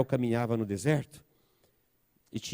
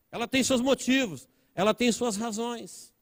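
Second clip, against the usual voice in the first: impassioned preaching; 11 semitones higher than usual. Real, not acted. Preaches at raised pitch.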